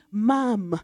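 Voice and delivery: Ma'am said as one short syllable, "mam". Shown as a demonstration. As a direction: say "Ma'am" short, not drawn out. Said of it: "you pronounce it".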